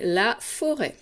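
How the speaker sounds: slow, carefully articulated LA FORÊT; la forêt, each word given time; dictation reading. Shown as a demonstration. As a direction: read out LA FORÊT for pupils to write. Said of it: "Je te le lis".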